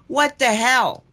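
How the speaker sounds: sharp high angry shout; exasperated outburst, pitched high and loud; angry yell at the Eagle. Retold or imitated. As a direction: yell it up at the sky in frustration. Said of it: "I'm screaming at the Eagle".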